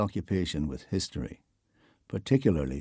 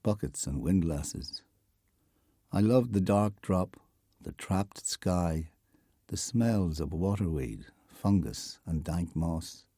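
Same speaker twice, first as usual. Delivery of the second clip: poem reading. Acted. Documentary narrator reads Heaney's poem aloud, measured poem recital.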